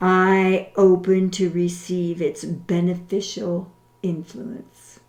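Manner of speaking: slow, deliberate, over-enunciated prayer. Shown as a demonstration. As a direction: pray each line slowly, with long pauses. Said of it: "I will say it slowly".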